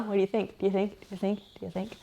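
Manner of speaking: fading repeat. Real, not acted. Repeats the question, fading away.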